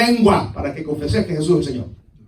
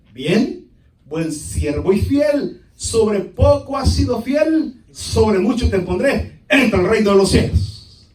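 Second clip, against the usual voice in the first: master's praise; 2 semitones higher, 6 dB louder, slower than usual. Acted.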